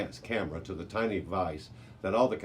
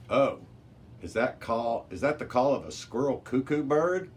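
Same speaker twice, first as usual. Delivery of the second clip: excited recognition; 5 semitones higher, 4 dB louder than usual. Acted. Mari excitedly recognizes the bird call.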